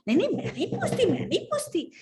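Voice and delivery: high, hurried refusal; reluctant maid. Acted. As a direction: back out nervously. (घबराकर मना करते हुए)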